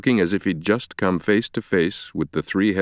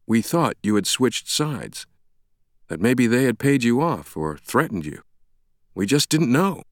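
higher-pitched, lightly voiced apologetic man; shaken colleague; 5 semitones higher than usual. Stranger explains suspicions to Langdon, mildly shaken. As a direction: explain it, still taken aback.

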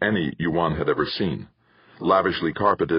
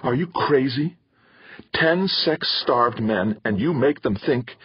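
1 angry scolding; 8 semitones higher than usual. A narrator's reading. Mother scolding daughter after slap.

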